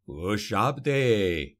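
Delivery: drawn-out summoning call; sorcerer calling out. A narrator's reading. Sorcerer summoning his stone guardian, slow call. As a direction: stretch the name out like a command. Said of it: "called Kadik".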